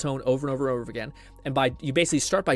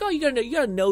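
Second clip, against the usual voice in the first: higher, louder mocking imitation; mock advice-giver; 10 semitones higher, 5 dB louder, faster than usual. Streamer mimics people giving vague advice, mocking. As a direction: parody a vague know-it-all.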